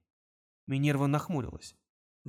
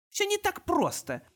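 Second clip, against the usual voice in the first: put-on higher, slow girl's reply; slower than usual. A narrator's reading. Girl dodges Kong's question, higher and slow. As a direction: say it slowly, evasive. Minerva answers Kong.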